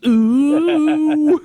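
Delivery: high, loud held "ooh" wail; loud comic wail; imitated scream. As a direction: let out a mock high-pitched scream.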